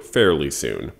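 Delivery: offhand, shrugging fairly soon; casual. Retold or imitated. Mimicking the president's offhand answer, casual. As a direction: toss it off like it's nothing. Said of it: "in a very casual voice".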